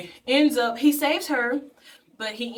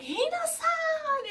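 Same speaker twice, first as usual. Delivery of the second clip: very high, drawn-out "Hina-san!"; calling out her name; much slower than usual. Retold or imitated. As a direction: call across to her, stretching it slowly. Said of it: "and he's like".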